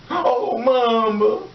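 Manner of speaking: drawn-out high mock wail of grief; the killer mourning his mother, mock high drawn-out wail. Mocking the grieving killer.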